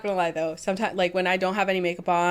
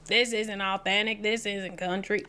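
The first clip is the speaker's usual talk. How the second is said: put-on Southern accent; 3 dB quieter than usual. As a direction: imitate a Southern country accent. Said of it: "make fun of that accent".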